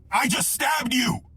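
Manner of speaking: high, drawn-out panicked shout; imitated shocked yell. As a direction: blurt it slowly and loudly in horror. Friend who stabbed him, acted out.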